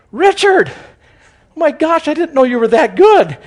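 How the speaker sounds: high, loud comic amazement; mock astonishment. Acted astonishment at pastor above him.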